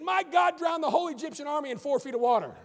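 put-on boy answers the professor with loud glee; triumphant punchline. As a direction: land it with glee.

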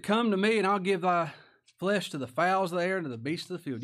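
acted booming threat. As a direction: proclaim it as a giant's menace. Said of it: "That's a pretty good threat".

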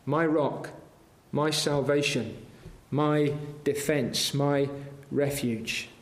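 hushed personal trust, trailing away; quiet, tender confession. Shown as a demonstration. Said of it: "How does anybody get to speak like that?".

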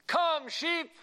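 high, loud holler; pastor's hillside call. Retold or imitated. Pastor calling his sheep up the hillside, high loud yell. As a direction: call it out to a far-off flock. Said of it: "he yelled up that hillside".

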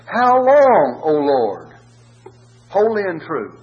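high, loud cry of the slain. Acted. Souls under the altar crying to God, loud. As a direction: call out to God at full voice. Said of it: "they cried with a loud voice".

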